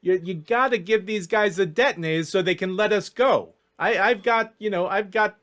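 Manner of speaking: exasperated elf coaxing his friend; pleading elf schemer. Acted. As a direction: cajole an old pal who's messing up. GM voices Ellis pleading with Jack.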